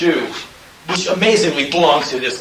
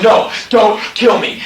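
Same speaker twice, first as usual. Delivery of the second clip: retold pleading; 8 semitones higher, 5 dB louder than usual. Himself pleading with the attacker.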